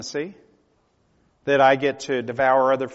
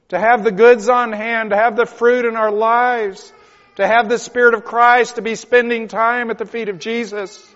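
high, loud, crying plea to God; weeping prayer, slowing on the plea; tearful preaching; 8 semitones higher, 10 dB louder than usual. Real, not acted. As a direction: pray through tears, begging.

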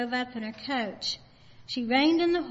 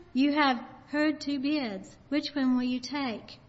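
fervent preaching; 2 semitones higher than usual. Retold or imitated. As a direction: proclaim it with fervor. Preacher bids for Jesus.

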